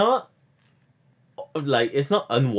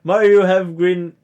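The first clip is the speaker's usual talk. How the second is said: Red Riding Hood parody; 4 semitones higher, 3 dB louder than usual. Retold or imitated. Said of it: "it's like something out of Red Riding Hood".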